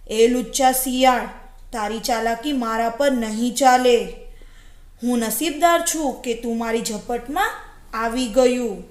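storybook predator sure of his catch; gloating wolf. Acted. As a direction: push it out firmly as the boastful wolf.

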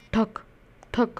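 short, separate knocks made with the voice; spoken thud, thud; imitated footstep thuds. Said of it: "पैर की आवाज़ आने लगी".

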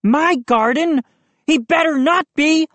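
a hint of an indignant bully; Moose declaring. A narrator's reading. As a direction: declare it like it's your turf. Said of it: "Moose declared".

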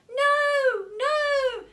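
high, loud pleading no; desperate shout. Acted. Clara shouting to stop the mice. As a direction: scream it to stop them. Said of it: "shouted Clara".

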